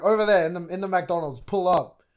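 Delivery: lightly acted challenge to fight; retold threat. Acts out rider's threat.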